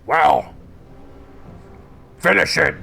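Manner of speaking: loud, high taunting shout; downed fighter taunts the ogre, shouting; defiant taunt. Acted. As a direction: dare him to finish it. Fallen hero taunts the ogre.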